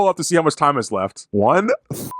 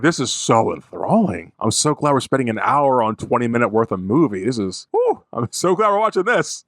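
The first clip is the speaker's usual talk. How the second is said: oversell it with dry sarcasm; sarcastic. Retold or imitated. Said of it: "I was like".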